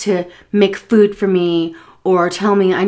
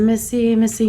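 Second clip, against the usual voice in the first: calm call; 4 semitones higher than usual. Retold or imitated. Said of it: "I was trying to call her calmly".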